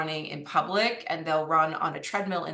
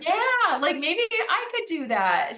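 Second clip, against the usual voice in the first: inspired onlooker; 10 semitones higher, 4 dB louder, slower than usual. Retold or imitated.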